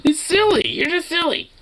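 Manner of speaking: very high squeaky cooing. Real, not acted. Owner cooing very high at the pet.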